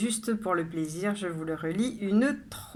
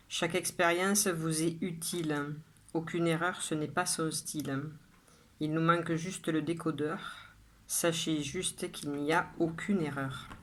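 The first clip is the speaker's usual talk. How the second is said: measured poem reading with pauses after each line; poem recitation. Acted. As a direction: recite it line by line, evenly and deliberately. Reads own poem aloud. (lecture de poème posée, vers par vers)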